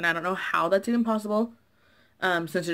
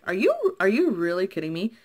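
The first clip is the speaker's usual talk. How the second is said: angry disbelief; 2 semitones higher, 4 dB louder than usual. Retold or imitated. Customer to Zales clerk over the warranty, angry disbelief. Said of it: "You know, I'm really angry".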